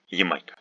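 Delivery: Ямайка said "yi-MAI-ka"; reduced "yi" at the start of Ямайка; unstressed Я reduced. Shown as a demonstration. Teacher illustrating unstressed Я, Ямайка starting with "yi". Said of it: "at the beginning of a word is pronounced as".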